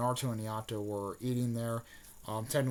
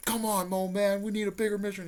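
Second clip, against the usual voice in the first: higher, louder whiny demand; pitched-up pushy kid; Naruto impression; 8 semitones higher, 4 dB louder than usual. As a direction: nag the old man like a bratty kid. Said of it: "He's like".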